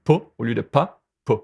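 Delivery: "pas" with the back vowel, like "po"; "pas", Quebec vowel versus standard vowel. Shown as a demonstration. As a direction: contrast both versions of "pas". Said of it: "on prononce le pas".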